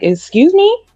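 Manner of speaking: high, indignant "Excuse me?"; indignant customer. Retold or imitated. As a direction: customer acting offended at the refusal. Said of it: "He was like".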